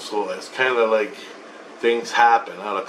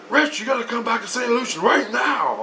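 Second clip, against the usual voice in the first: Jesus; 11 semitones higher than usual. Retold or imitated. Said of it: "And Jesus goes".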